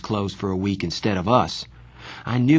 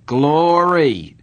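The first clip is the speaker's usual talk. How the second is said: louder, higher exclamation in a lightly rough voice; rough familiar voice; 6 semitones higher, 6 dB louder than usual. A narrator's reading. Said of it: "said a rough but familiar voice".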